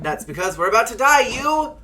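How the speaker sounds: loud, rising panic ending on a high shout; frantic yell. Acted. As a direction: scream it at your brother. Ghost truckers in peril.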